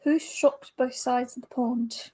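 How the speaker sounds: put-on British-Australian blend; amateur Anglo-Australian quiz reading; mixed UK and Aussie accent. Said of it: "a mix of U K and Aussie".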